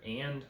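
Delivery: "and" picked out as a quoted word; stress on AND. Shown as a demonstration. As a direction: lift the word "and" as one of two options. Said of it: "can be either".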